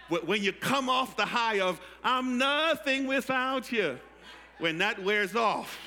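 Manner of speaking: loud, rising preacher's cry; preaching shout. Real, not acted. Preacher shouting to the congregation, loud. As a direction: build the shout over the congregation.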